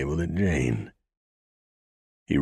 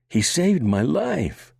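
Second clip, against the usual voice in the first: very high, loud, slow plea; desperate cry; 13 semitones higher, 5 dB louder, slower than usual. A narrator's reading. Daughter pleading desperately with her father. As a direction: plead with all she has. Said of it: "Banshee cried again".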